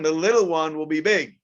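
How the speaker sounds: ordinary talk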